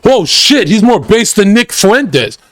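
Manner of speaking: lightly hammed-up amazement from the crowd; mock amazed crowd. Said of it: "everyone will be like".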